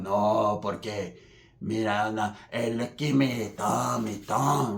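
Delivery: low, soft grumbling imitation; crazy paisa. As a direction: mumble the objection low and slow. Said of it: "he sounds all crazy".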